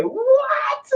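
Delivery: very high, drawn-out shocked cry; astonished. Acted. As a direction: act out stunned disbelief at her age. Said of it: "you'll say".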